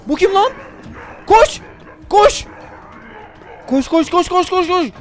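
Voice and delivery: panicked high shouting; being chased. Real, not acted. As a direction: yell in terror while fleeing. Chased by animatronics in game.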